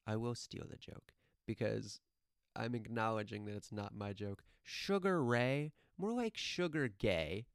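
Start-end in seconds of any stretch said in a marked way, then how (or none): 4.6-7.5 drawn-out, higher-pitched taunt; mocking jab. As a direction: tease with a slow, swooping put-down. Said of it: "the kid just goes".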